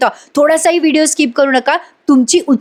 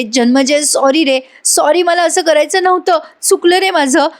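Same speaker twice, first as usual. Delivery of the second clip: apologetic plea; 5 semitones higher than usual. Acted. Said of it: "sorry म्हणायला लागते".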